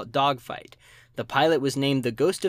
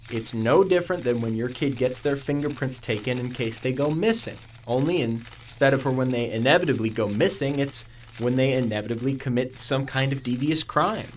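police spokesman voice. Acted.

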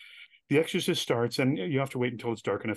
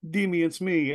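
lightly voiced mother on the phone, higher; a hint of movie-mother plea, pitched up; imitating his mother; 5 semitones higher, 4 dB louder than usual. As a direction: play a mother calling her son. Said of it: "my mother will call me up and say".

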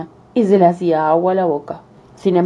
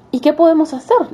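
put-on little girl voice; 9 semitones higher than usual. Girl voiced in fairy tale.

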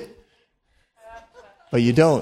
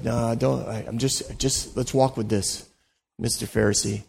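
gentle, soft reassurance; 3 semitones lower, 6 dB quieter than usual. Retold or imitated. Jesus gently answering the Pharisees.

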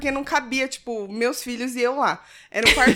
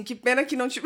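quote dissolving into laughs; 3 dB louder, faster than usual. Retold or imitated. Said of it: "ele falou assim".

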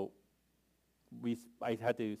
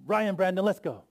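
calling out; 8 semitones higher, 8 dB louder than usual. Retold or imitated. Calling kids to leave.

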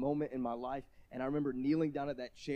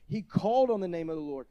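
preached louder; 4 semitones higher, 9 dB louder than usual. Acted. Preaching repeats line.

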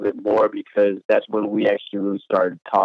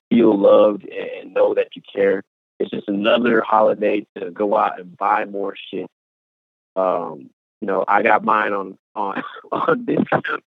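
choppy, robotic bad connection. Real, not acted. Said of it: "your voice sounds real robotic".

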